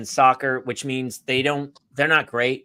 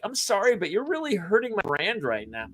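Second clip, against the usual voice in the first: soft, raised, wounded voice; mock offended applicant; 5 semitones higher, 7 dB quieter than usual. Job applicant answering employer, mock offended. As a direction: imitate a precious young person taking offense. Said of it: "And they're like".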